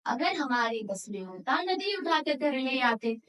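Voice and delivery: measured, rhythmic declaiming of verse; poem recitation. Acted. Student presenting a river poem to an audience, rhythmic recitation. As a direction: recite line by line in a steady beat. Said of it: "कविता नदी कंधे पर प्रस्तुत करने".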